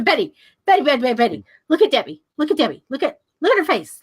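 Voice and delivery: urgent calling. Retold or imitated. Retold Walt urgently calls wife over.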